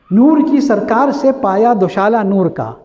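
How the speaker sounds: slow, chanted couplet recital; poetic recitation. Acted. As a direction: recite the verse slowly and lyrically.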